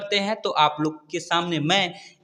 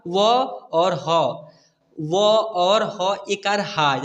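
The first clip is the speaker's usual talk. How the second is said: slow spelling demo; much slower than usual. Shown as a demonstration. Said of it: "ऐसे उच्चारण करेगा".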